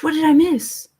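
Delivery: usual speaking voice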